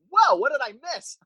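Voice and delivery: high, wide-eyed startled question; mock surprise. Tuning in late and acting startled, high mock surprise. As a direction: sound like you just walked in on chaos. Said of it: "I'm like".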